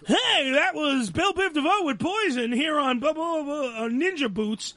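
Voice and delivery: lightly hammed-up imitation of a rival DJ; Nico's DJ voice. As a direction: sneer through a parody of a radio jock.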